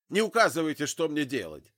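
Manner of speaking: loud, high snap; angry retort. A narrator's reading. Father rejects Zig's warning, angry shout. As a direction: cut him off in rage. Armed drunk father snaps back.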